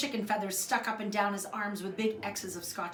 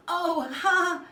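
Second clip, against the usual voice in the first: awkward laugh; 9 semitones higher, 9 dB louder than usual. Acted.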